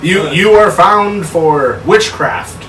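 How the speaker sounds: judge voice. Pretend. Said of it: "give me your best life sentence".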